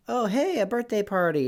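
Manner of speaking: high, loud-ish pleasant surprise; mild happy surprise. Acted. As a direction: act pleasantly surprised, pitched well up. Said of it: "but I mean, like, really spooked".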